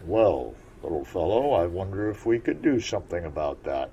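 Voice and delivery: put-on musing old frog; old frog wondering how to help; froggish voice. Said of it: "in his froggish voice".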